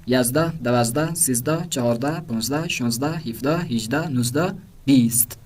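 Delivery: numbers in pairs, each pair ending on a rising tune; listing rhythm, rise on each pair; Persian number recital. Shown as a demonstration. Teacher reading numbers again for listening, paired list. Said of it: "یہ بار دیگه گوش کنید".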